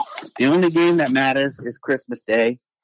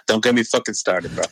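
said through a real laugh; 3 semitones lower than usual. Real, not acted. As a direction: laugh it out, exasperated.

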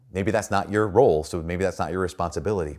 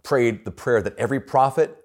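put-on Tennessee accent; 4 semitones higher than usual. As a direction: lightly imitate a Tennessee accent, pitched up. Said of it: "he had this accent".

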